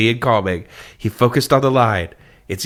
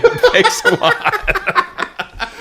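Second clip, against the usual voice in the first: very high, slow sarcastic thanks; much slower than usual. Real, not acted. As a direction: drip sarcasm, stretched out. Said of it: "sarcastic about domain".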